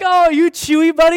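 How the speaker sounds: high, loud doting coo; gushing dad. Retold or imitated. Dad charmed by his five-year-old's roar, gushing. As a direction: playfully gush at a little child.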